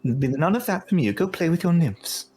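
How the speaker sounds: lightly voiced queen, pitch rising; Titania chiding. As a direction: shoo the satyr away as his queen. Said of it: "And she says".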